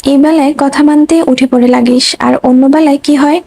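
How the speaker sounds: ordinary delivery, nothing marked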